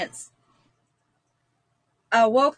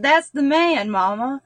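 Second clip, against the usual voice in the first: put-on excited child; 4 semitones higher than usual. Child recognizing photo.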